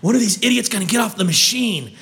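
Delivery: exasperated inner grumbling, lightly voiced; fed-up guy waiting for the machine; annoyed gym-goer's thoughts. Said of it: "all anybody can think of is".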